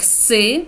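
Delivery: "с" as an unvoiced hissing sound; voiceless s sound. Shown as a demonstration. Teacher showing one reading of esse, voiceless "с". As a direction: say "с" with no buzz. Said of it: "читається інколи".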